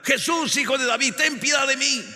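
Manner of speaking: high-pitched pleading call; acted cry for mercy. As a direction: call out to Jesus as a blind beggar. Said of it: "comenzaron a gritar".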